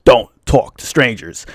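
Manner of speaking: slow, deliberate parental rule; parental warning. Retold or imitated. Recalling what parents always told him, slow warning. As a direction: lay down the rule, word by word. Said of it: "my parents always told me".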